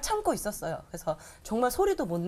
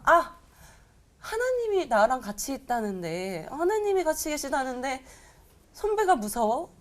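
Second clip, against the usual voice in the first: sudden realization; 4 semitones higher than usual. Retold or imitated. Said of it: "갑자기 이런 생각이 막 드는 거예요".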